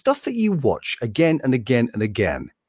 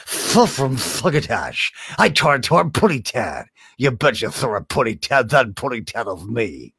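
cartoon voice; 2 semitones lower than usual. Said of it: "he was the voice that you would hear go".

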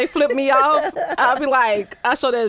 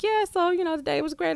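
higher, softer small-talk voice; pleasant phone chat; 6 semitones higher, 5 dB quieter than usual. Retold or imitated.

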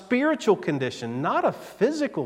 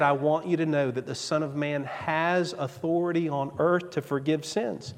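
solemn Jesus; 5 dB quieter than usual. Acted. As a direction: lay down the claim with grave calm. Retelling Jesus' claim.

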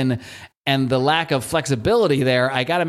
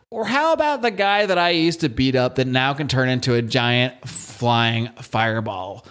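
mocking bully; 4 semitones higher than usual. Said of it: "and he says".

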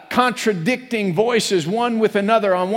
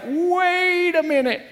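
startled inner voice; 8 semitones higher, slower than usual. Pretend. Spirit crying out, voiced high.

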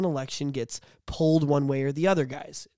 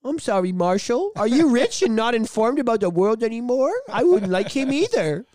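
mock sympathy; 5 semitones higher, 4 dB louder than usual. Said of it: "I was like".

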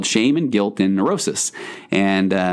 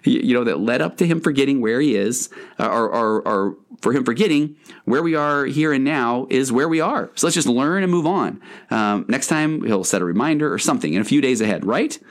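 lightly voiced easygoing guy, higher; a hint of a pal smoothing things over; guilt defending you; 5 semitones higher than usual. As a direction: guilt stepping in to calm shame down. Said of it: "and he's like".

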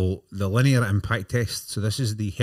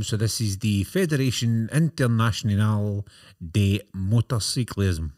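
put-on dodgy European accent. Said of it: "tell me what it is in a dodgy European accent".

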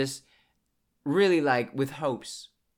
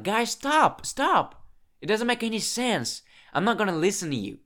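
much higher, louder retold protest; exasperated outburst; 10 semitones higher, 6 dB louder than usual. Shutting down friends' repeated opinions, exasperated. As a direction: cry out "stop" high and loud, then ease off slightly. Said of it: "And I was like".

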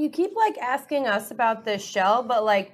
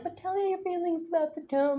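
soft, higher put-on lover's murmur; mock pillow talk; 8 semitones higher, 5 dB quieter than usual. Teasing a married couple about bedtime chats, mock pillow talk. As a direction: play at coaxing a partner, hushed and high. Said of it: "don't you guys do it in, like, pillow talk".

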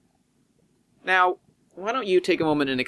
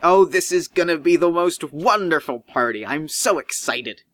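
giddy; 2 semitones higher than usual. Acted. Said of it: "he's real giddy".

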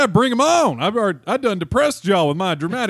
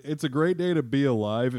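dramatic reading; 2 semitones lower, 3 dB quieter than usual. Shown as a demonstration. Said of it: "if you read it dramatically".

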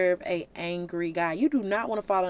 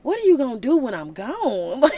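exasperated, louder mock scolding; sarcastic Jesus; 4 semitones higher, 5 dB louder than usual. Jesus fed up with his followers, louder sarcastic exasperation. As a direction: lean on it in sarcastic disbelief. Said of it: "that's his tone".

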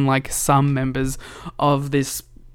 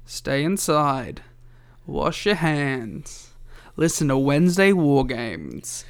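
slow, deliberate PSA read; slow advice; slower than usual. Pretend. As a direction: spell it out slowly. Repeating advice slowly.

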